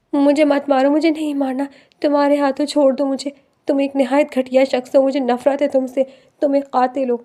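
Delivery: mildly voiced hysterical cry; a touch of frantic terror; hysterical screaming. Terrified wife screaming at husband she thinks killer, hysterical. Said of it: "ہذیانی انداز میں چیختے ہوئے".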